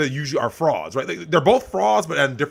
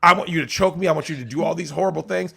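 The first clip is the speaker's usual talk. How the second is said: mock pleading woman; 5 semitones higher, 4 dB louder, faster than usual. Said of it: "She'll eventually admit, like".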